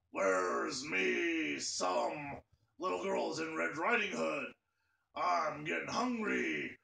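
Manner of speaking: a hint of a low, slow wolf growl; big bad wolf. Streamer as the hungry wolf, hamming it up slowly. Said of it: "I'm now a wolf".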